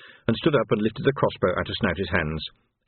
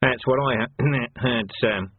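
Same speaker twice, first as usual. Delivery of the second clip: slow, halting underling; nervous Snouty; slower than usual. Acted. Snouty agrees with his captain, nervous and halting. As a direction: break off to clear the throat mid-word.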